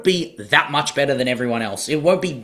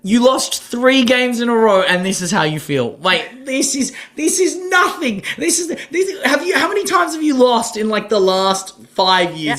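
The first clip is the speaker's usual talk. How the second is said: exasperated disbelief; 6 semitones higher than usual. Real, not acted. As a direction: scold her in disbelief, voice up. Exasperated rant at the player.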